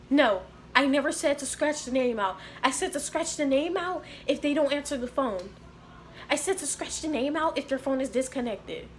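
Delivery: slightly high-pitched mock boss telling someone off; lightly mocked nagging supervisor; imitated scolding. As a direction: imitate a boss correcting a worker. Retold supervisor scolding her.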